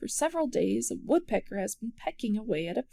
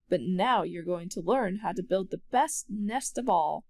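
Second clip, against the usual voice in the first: proudly. Acted. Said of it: "caws the magpie proudly".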